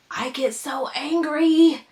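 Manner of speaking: slow, drawn-out mock angry; hammed-up grumpy; mock anger. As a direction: play up the anger, slowly. Mock anger about being interrupted.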